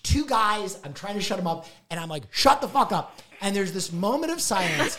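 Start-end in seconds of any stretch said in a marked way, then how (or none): 2.3-3.2 exasperated retort. Retold or imitated. Retold retort to best friend.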